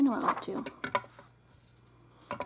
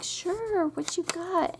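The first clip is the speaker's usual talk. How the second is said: high, bright eager reply; chirpy mom; 8 semitones higher, slower than usual. Retold or imitated. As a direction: brightly play your eager younger self. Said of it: "I'm like".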